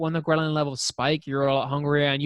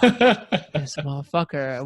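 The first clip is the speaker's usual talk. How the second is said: slow, laughing disbelief; amused, exasperated drawl; laughing exasperation; much slower than usual. Retold or imitated. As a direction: drag it out through a laugh. Exasperated retold reaction.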